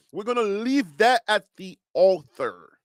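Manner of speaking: Liberian-accented "altar", sounded like "author". Real, not acted. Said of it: "that's your Liberian accent".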